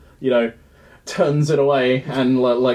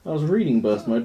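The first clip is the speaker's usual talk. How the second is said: ordinary talk, nothing marked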